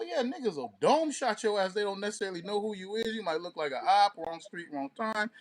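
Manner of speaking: ordinary talk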